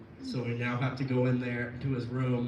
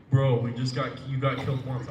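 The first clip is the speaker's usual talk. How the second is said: retold retort; 7 dB louder than usual. Teammate's retort in retold quarrel.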